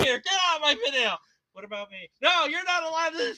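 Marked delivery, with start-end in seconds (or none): 1.5-2.1 very soft small voice; barely-there squeak of a toy; tiny toy voice. Pretend. Toy begging to join the video, tiny soft voice.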